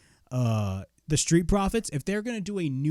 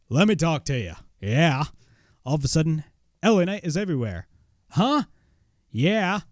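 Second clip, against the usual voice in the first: punchy wrestler promo impression; L A Knight; 2 semitones higher than usual. Fan imitating the wrestler's entrance promo, punchy. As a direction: imitate a wrestler's cocky catchphrase delivery. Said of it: "L A Knight, uh, impression".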